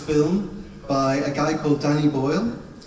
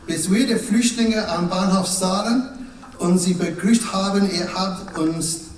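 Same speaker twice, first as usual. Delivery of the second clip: pretend German. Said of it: "I'm going to pretend to speak German".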